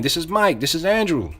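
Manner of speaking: familiar caller. Shown as a demonstration. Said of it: "you say your name".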